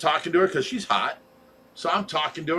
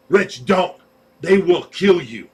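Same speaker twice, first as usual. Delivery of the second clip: louder, slow, emphatic mock plea; urgent warning; 5 dB louder, slower than usual. Girlfriend warning her date off a fight, urgent. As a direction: spell out the danger, voice raised.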